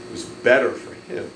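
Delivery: a hushed whisper. Real, not acted. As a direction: breathe it almost to yourself. Pastor reflects on stepfather's choice.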